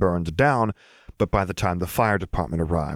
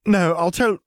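high whiny threat; a little boy threatening to tattle; whiny child voice; 11 semitones higher, 4 dB louder, slower than usual. Acted.

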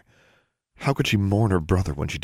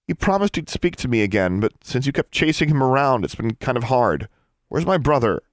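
heated, high and loud; accuse, then demand an answer; angry accusation; 8 semitones higher, 5 dB louder than usual. A narrator's reading. Girl blaming Miss Grimm for chasing her brother, angry. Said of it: "She glared at Miss Grimm".

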